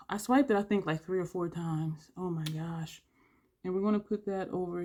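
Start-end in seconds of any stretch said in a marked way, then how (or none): none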